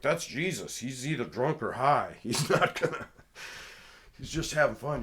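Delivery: mocking teammate. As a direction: play it off like he's harmless. Imitating the teammate's dismissive excuse.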